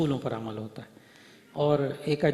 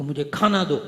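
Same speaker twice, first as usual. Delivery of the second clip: put-on child's yell; 5 dB louder than usual. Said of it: "یہ بچہ چیخ کر بولے".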